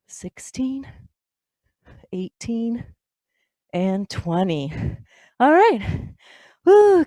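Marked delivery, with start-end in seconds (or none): 5.4-7.1 loud, higher whoop of relief; excited cheer. Real, not acted. Coach cheering class after crunches, loud excited whoop. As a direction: cheer the class through the finish.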